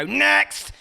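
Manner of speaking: mum calling. Retold or imitated. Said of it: "your mum would go".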